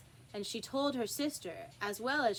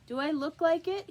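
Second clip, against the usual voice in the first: higher, louder sad knave; knave's voice; 7 semitones higher, 6 dB louder than usual. Acted. Knave answers king.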